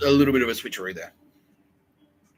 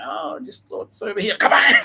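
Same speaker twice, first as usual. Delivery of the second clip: much higher, shouting out the taunt; mock battle shout; 13 semitones higher, 9 dB louder than usual. Taunting an assassin before shooting him, loud high shout. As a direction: yell it like a cocky gunslinger.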